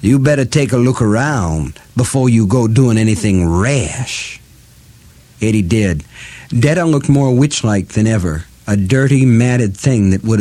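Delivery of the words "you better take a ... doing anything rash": muffled through clenched teeth. Acted. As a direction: talk around a rope in the teeth. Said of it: "Detta's voice became muffled as well as a southern darky caricature".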